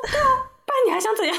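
high, teasing mock doctor; breezy doctor. Dentist teases anxious patient, high breezy mock retort. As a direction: shrug it off at the fussy patient. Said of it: "他说".

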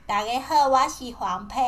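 laughing. Real, not acted. Refuses English, repeats intro laughing.

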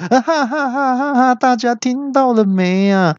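高声狂笑着说; 得意地哈哈大笑招呼大家; 纵声大笑. A narrator's reading. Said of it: "纵声大笑说". (三怪纵声大笑)

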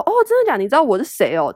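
imitating her own amazed reaction; surprised. She retells being amazed a stranger knew her show, mock shocked. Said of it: "我就超惊讶".

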